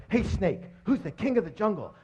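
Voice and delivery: high, demanding lion voice; swaggering bully lion asking; bossy lion. Acted. Lion bullies jungle animals.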